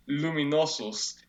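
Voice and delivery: slow, careful "luminosus" in Latin; measured Latin "luminosus"; actual Latin word. Shown as a demonstration. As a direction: sound out "luminosus" slowly, every syllable clear. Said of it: "the actual Latin word".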